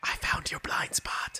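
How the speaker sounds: very hushed, breathy whisper. As a character clinging to another's back, whispering in his ear. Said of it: "He whispers in his ear".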